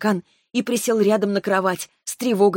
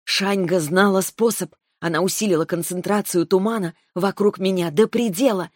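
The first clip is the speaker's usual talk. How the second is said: ordinary delivery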